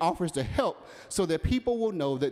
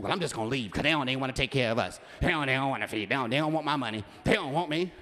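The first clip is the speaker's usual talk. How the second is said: 1 huffy customer; 2 semitones lower, faster than usual. Retold or imitated. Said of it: "you get this old attitude".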